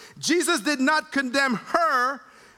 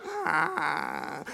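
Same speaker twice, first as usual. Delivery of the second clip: soft mock wail of a crying toddler; imitated baby cry; 8 semitones lower, 6 dB quieter than usual. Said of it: "he was crying like".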